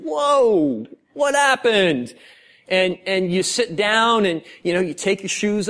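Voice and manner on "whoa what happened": startled dad. Retold or imitated. Dad walking into chaos.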